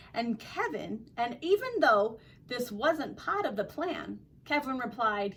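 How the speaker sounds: story read with an attempted Australian accent; lively storyteller trying an Australian accent. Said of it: "my attempt at an Australian accent".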